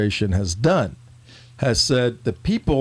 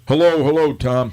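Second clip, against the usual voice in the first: male voice. Shown as a demonstration. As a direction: show a co-host how to sound like a man. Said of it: "give us a male version of C J voice".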